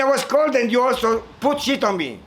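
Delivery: high whiny bird complaint; complaining chick. Acted. Chick complaining to the cow about the dung, high whine. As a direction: whine like an offended little bird.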